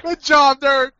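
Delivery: high, sped-up chipmunk voice; like audio played too fast. Real, not acted. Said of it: "He does sound like a chipmunk".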